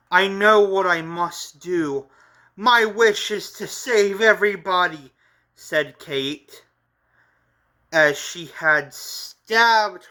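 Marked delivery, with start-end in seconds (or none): 0.1-5.1 resolute heroine. Acted. Kate declares her sacrifice.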